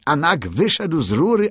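high, eager bird voice singing praise; proud songbird crowing the victory; excited little bird. A narrator's reading.

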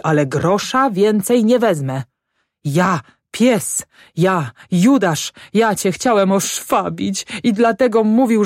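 high-pitched maudlin self-reproach; acted pitiful wail, easing toward the end; moaning. A narrator's reading. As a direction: lament like a tearful drunk confessing. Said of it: "jęczał Grochowski".

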